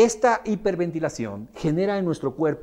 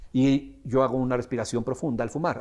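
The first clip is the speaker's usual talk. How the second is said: ordinary delivery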